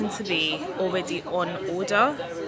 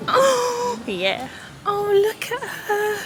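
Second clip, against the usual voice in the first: much higher, louder gasping delight; excited gasp; 14 semitones higher, 4 dB louder, much slower than usual. Real, not acted. Buyer first seeing her new car, excited. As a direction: gasp and swoon at the sight.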